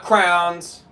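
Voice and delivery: "crowns" with a slow, stretched OW; rejected pronunciation. Shown as a demonstration. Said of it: "It's not crowns".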